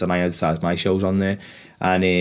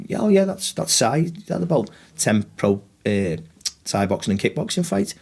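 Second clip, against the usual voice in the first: raised, telltale voice; high gossiping voice; 4 semitones higher than usual. Retold or imitated. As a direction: spill the secret high and casual. Imagined bystander revealing record.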